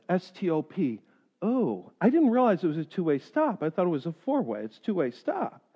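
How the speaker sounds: soft, low sheepish excuse. Retold or imitated. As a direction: mumble the excuse, caught out.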